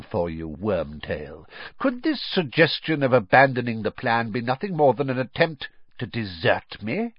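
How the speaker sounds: cold, accusing master's voice; a lightly voiced sinister lord; menacing dark lord. The dark lord accuses his servant.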